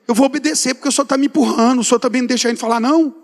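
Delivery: mildly angry grudging protest; revolted, cross. Retold or imitated. Preacher retelling his grumble to God, mildly indignant. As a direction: complain crossly as you give in. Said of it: "fui revoltado, fui bravo, tipo assim".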